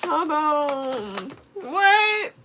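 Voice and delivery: real laughter breaking through the words; cracking up, barely able to get it out; giggling helplessly at the cards; laughing. Real, not acted. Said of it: "This is hilarious".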